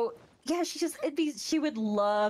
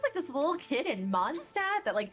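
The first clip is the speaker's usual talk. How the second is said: bright, raised, admiring; Yoimiya's voice; 5 semitones higher than usual. Retold or imitated. Yoimiya praising the little explosives kid, lightly voiced. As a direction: marvel at the kid like a cheerful big sister. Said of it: "She's like".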